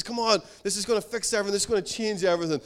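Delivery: quick, pressing plea; insistent pleading son. Retold or imitated. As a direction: imitate a son urging his father hard. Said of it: "he really goes for it".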